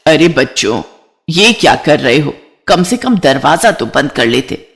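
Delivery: lightly voiced mother-in-law, slightly low; a hint of gentle motherly chiding; सास कमला. (सास की हल्की टोकती आवाज़)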